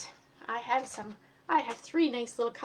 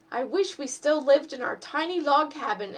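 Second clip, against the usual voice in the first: whining wish; 2 semitones higher, 6 dB louder than usual. Acted. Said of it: "Eddie whined".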